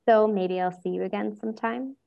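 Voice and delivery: lightly coy and offhand, rising at the end; tossed off casually with a hint of flirting; coy nonchalance. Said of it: "said with nonchalance".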